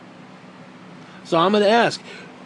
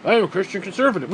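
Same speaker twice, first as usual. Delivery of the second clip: mock conservative; faster than usual. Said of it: "are you kidding me".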